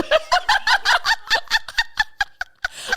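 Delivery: long, high-pitched helpless laugh; laughing fit. Real, not acted. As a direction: burst into a long squealing laugh. Bursts out after retold thank-you.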